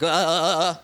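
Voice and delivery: imitated jolting, repeated uhs; shaken grunts. Playing a penis being shaken, jolted grunts. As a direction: vocalize being jiggled, syllable by syllable. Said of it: "when you're shaking the pee out".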